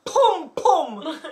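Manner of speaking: put-on high, drawn-out showing-off child; little kid voice. Imitating daughter who waits for mom's reaction, showing-off kid voice. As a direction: stretch it high, fishing for a reaction.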